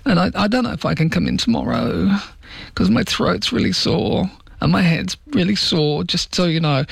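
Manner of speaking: lightly put-on poorly voice, laying groundwork for a sickie. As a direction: imitate a millennial making excuses. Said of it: "That's how they talk".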